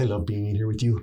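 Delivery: Esteban's cheerful Spanish accent; happy Spanish accent. Shown as a demonstration. Actor demonstrates his sitcom character, happy Spanish accent. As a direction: play the fun guy with a Spanish accent. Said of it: "did an accent, made him happy".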